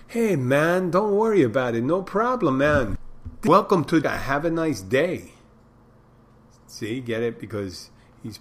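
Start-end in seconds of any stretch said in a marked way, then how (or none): 0.1-3.0 put-on high, loud, lilting Jamaican accent. Resort worker reassuring a jealous husband, in a Jamaican accent. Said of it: "It's a guy in Jamaica". 3.5-5.3 high, loud Jamaican punchline voice; Jamaican accent. Acted. Resort worker welcoming the tourist, in a high Jamaican accent. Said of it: "It's a guy in Jamaica".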